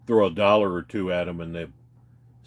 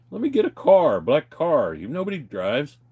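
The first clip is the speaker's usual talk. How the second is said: exasperated protest; 5 semitones higher than usual. Retold or imitated. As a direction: insist on taking a car instead. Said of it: "I'm like".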